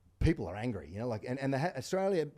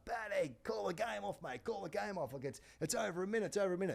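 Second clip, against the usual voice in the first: retold yell; 10 semitones higher, 5 dB quieter than usual. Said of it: "I'm yelling out to Paddy O'Brien".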